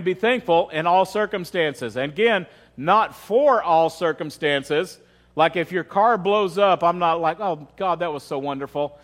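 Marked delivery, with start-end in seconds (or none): 2.8-5.0 "for" drawn out slowly in contrast; stress on FOR. Shown as a demonstration. Preacher correcting a misreading for congregation, stressing "for". 7.4-9.0 low, soft, insincere thanks; badly faked praise, dropping away quietly; mock gratitude. Preacher mimicking thanks for a blown-up car, mock-grateful.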